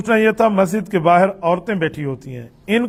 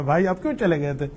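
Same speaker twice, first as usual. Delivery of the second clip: gentle, kind; 5 dB quieter, faster than usual. Retold or imitated. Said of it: "بڑے پیار سے پکڑا".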